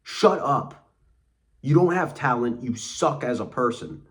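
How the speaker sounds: loud, high-pitched telling-off; scornful retort. Retold or imitated. Telling the self-pitying boss off, acted scornful outburst. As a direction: act out blasting them with contempt.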